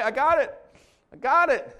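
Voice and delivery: high, loud comic insistence; panicked mock shout. Pastor replaying Chunk to the congregation, panicked mock shout. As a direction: call it out as the overconfident kid. Repeats Chunk's frantic catch.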